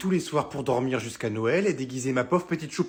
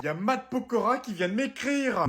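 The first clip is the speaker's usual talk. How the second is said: starstruck; 7 semitones higher than usual. Acted. Mother thrilled by star's message.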